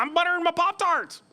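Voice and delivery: high, matter-of-fact roommate voice. Retold or imitated. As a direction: answer high and simply, as the roommate. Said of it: "She's like".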